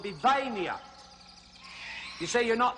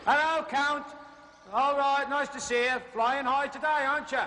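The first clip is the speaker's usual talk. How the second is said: cheery greeting; 6 semitones higher than usual. Acted. Greets a flying bat cheerily.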